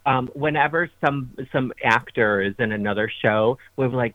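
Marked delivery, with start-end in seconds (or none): none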